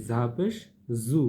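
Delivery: buzzing z on 'ঝা' and 'জু'; cricket-like buzz. Shown as a demonstration. Teacher explains the za sound, buzzing z in 'ঝা পেশ জু'. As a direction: let 'জু' hum like a cricket. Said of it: "এটা সামান্য ঝিঝি পোকার মতো".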